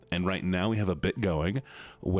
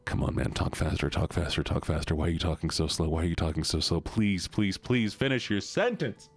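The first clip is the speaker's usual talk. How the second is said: impatient pleading; 3 semitones lower than usual. Pretend. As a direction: repeat it impatiently, stretching the final plea. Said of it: "all I can imagine is".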